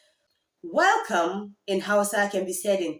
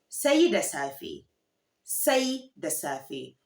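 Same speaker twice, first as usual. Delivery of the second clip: slow model pronunciation; 3 semitones lower, slower than usual. Shown as a demonstration. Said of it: "Good night is".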